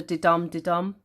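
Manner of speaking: "didum didum" leaning on each "dum"; iambic rhythm. Shown as a demonstration. Teacher showing the metre, "didum didum" stressed on each second syllable. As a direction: bounce "didum" from weak to strong. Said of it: "what I'm doing here".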